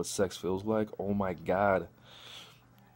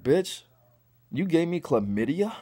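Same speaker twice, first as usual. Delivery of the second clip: mock outraged; 7 semitones higher, 3 dB louder than usual. Confronting Liz.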